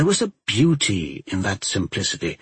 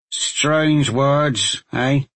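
gruff badger remark; 3 semitones higher, much slower than usual. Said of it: "Badger remarked".

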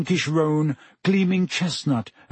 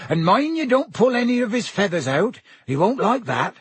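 high, swooping folksy caution; Hagrid; 7 semitones higher than usual. A narrator's reading. Hagrid cautions his pupil about the feathers, hearty. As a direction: warn the rider cheerily but firmly.

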